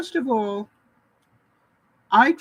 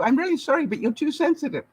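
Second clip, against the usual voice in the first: fake sorry; 5 semitones higher than usual. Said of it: "people say to you".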